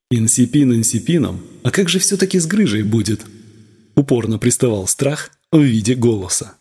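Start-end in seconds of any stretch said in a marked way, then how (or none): none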